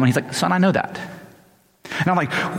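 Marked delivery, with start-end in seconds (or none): 0.3-1.0 calm father, not raising the volume. Retold or imitated. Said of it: "very calm".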